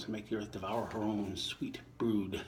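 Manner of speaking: poem reading. Acted. Reader reciting Shakespeare to listeners, measured poem voice. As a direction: give each line its verse shape. Reading sonnet nineteen aloud.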